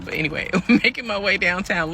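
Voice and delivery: spoken with a laugh. Real, not acted. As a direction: laugh through it.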